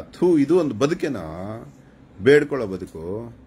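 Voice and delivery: loud, high burst of disgust; scornful scolding. Real, not acted. Streamer berating viewers over their lives, loud and disgusted. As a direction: berate them with loud contempt.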